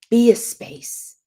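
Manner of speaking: "Be" lifted high and loud; "Be" punched up; stress on be. Real, not acted. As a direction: hit the word "Be" hard. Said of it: "stress on Be".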